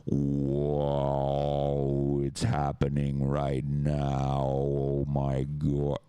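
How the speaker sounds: mock anchor watching the map collapse; dazed caricature of a host losing it; imitating Cenk freaking out. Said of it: "He was doing that shit".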